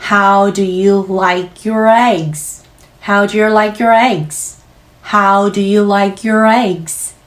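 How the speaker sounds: slow, air pressed on "your" and "eggs"; stress practice. Shown as a demonstration. Teacher drills stress on "your", slowly. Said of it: "공기를 여기에서 강하게 누르시는 것이".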